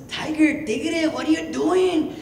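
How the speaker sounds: very high, slow rabbit call; rabbit character. Acted. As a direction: squeal out a long greeting as a little rabbit. Rabbit hails the tiger.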